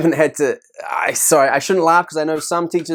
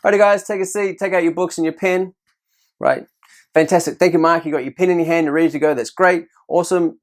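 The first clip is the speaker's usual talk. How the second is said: a bright, higher classroom voice praising students; lightly voiced praising teacher; upbeat teacher praise; 4 semitones higher than usual. Shown as a demonstration. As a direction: cheer the kids on as you sweep the room. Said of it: "So you ring the bell".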